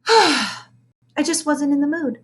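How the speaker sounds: slow, languid bored drawl; dramatic weary sigh. A narrator's reading. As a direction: moan it like a bored diva. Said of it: "with a dramatic sigh".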